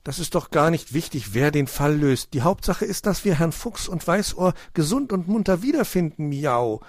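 high-pitched cat setting him straight; cat Mauz, reasoning. A narrator's reading. Cat to the sulking hedgehog, reasoning. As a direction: reason firmly as a storybook cat, ending in a meow.

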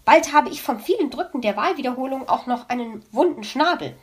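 complaining. Acted. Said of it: "beschwerte sie sich".

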